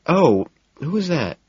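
high, mock-innocent question; feigned innocence. A narrator's reading. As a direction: play dumb sweetly. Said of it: "Evelyn feigns ignorance".

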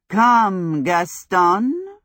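loud, curt summons; commanding call. Acted. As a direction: call the servant sharply. Witch summons her servant.

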